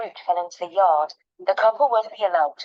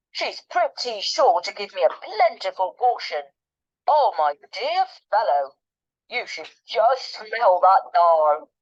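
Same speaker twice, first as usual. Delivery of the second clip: confidential relish. Acted. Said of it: "he added confidentially, smacking his lips".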